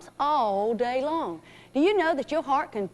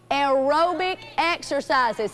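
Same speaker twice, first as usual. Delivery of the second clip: slow model phrase; slower than usual. Shown as a demonstration. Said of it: "Say that".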